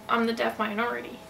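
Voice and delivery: usual speaking voice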